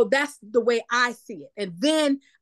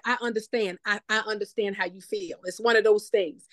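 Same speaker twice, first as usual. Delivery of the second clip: sympathetic. Shown as a demonstration. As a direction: ease into it like you truly get them. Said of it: "I'm doing the sympathetic".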